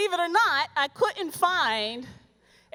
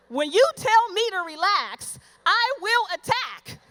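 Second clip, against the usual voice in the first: mock threat; 4 semitones higher, 3 dB louder than usual. Warning men who say relax, mock threat. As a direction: warn them you'll strike. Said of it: "threatening the audience".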